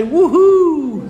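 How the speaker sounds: high, loud laughing whoop; excited whoop. Shown as a demonstration. Host whoops for Comic Con, laughing. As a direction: whoop it up for the crowd. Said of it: "Someone say".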